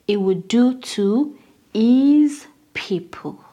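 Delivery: hushed reading. Acted. Reading the verse in a hush.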